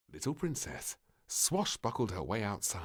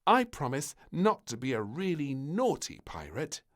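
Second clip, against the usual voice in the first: sweet promise; 7 semitones higher, 6 dB louder than usual. Acted. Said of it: "then smiled sweetly".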